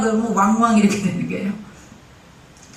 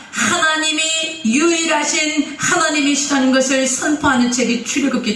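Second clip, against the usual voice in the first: proclaiming; 3 semitones higher than usual. Real, not acted. Proclaiming God's uniqueness.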